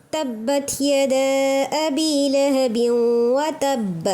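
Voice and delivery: very slow, measured recitation; Quranic recitation. Shown as a demonstration. Teacher reciting a verse slowly for the class to follow. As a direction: draw each word out calmly. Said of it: "اب watch دیکھو یہاں پر".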